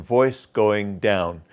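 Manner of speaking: understated fall on DOWN; conversational downward tune. Shown as a demonstration. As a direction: VOICE GOING DOWN gently descending. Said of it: "you just want it to be conversational".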